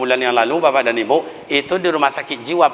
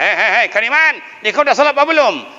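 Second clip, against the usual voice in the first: scolding elder; 6 semitones higher, faster than usual. Retold or imitated. Elder scolds child about prayer.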